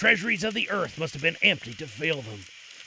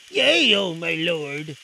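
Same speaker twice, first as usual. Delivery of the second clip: Aladdin voice; 5 dB louder, slower than usual. A narrator's reading. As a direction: address the king reverently.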